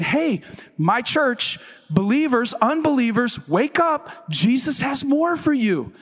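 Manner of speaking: preacher's spirited summons; urgent wake-up call. Acted. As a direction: call out to rouse a congregation. God calling the church to wake.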